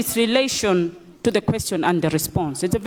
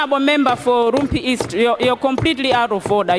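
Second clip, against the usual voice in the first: shouting order order; 3 semitones higher, faster than usual. Real, not acted. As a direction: cut him off quickly. Speaker ruling member out.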